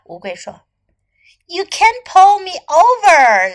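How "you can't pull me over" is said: high, loud, drawn-out scoff; elephant's hammed-up storybook scoff; mock laughing taunt. A narrator's reading. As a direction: jeer slowly and loudly at a small rival. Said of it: "laughed Elephant".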